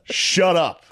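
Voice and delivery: high, laughing mock heckle; giggling imitation of the heckler; heckler's laughing yell. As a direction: laugh through the heckler's words. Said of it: "He goes".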